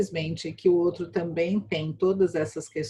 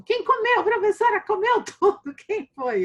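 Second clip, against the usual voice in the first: high, loud mock student voices; curious students; 14 semitones higher, 5 dB louder than usual. Teacher imitating her students asking who ate, high and loud. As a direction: play the nosy pupils chiming in. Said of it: "daí meus alunos perguntam".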